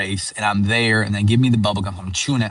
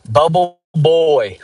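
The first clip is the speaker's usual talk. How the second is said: slow, drawn-out higher taunt; mocking nickname; 6 semitones higher, 5 dB louder, much slower than usual. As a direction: drag the nickname out like a teasing kid. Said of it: "That's what people would just call me".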